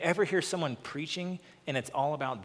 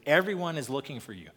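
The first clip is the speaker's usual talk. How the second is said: scolding, a little louder, pressing each word; tone of rebuke; 2 semitones higher, 5 dB louder than usual. Shown as a demonstration. Peter scolding Jesus for leaving the crowds, rebuking. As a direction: chide Jesus for wandering off. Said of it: "He kinda has this tone of rebuke about him".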